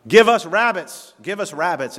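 put-on the child bursting in calling it out; kid shouting. Preacher retelling a boy coming home shouting. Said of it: "he was shouting".

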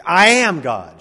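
a mentor insisting she mean it; said with conviction. Retold or imitated. Mentor coaching Shirley MacLaine, slow forceful command. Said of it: "you gotta say it with conviction".

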